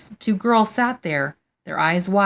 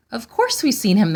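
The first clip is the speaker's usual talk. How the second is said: high, loud and insistent; insisting; 5 semitones higher, 4 dB louder than usual. Acted. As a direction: press the point hard. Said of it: "they insisted".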